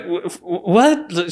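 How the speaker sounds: high, stammered mock disbelief; incredulous mom. Mom hearing of Stanford acceptance, incredulous. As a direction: stammer like a stunned mother. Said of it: "just started freaking out".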